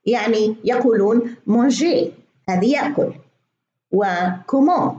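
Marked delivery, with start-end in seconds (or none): 1.5-2.1 manger said in French, final r silent, slow; French pronunciation. Shown as a demonstration. Teacher showing a silent French final letter, slow demo. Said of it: "إذا جاءت في آخر الكلمة لا تنطق". 4.5-4.9 comment said in French with silent final t; French pronunciation. Shown as a demonstration. Teacher showing the unspoken final t, careful demo. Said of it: "هذه آخرها تي".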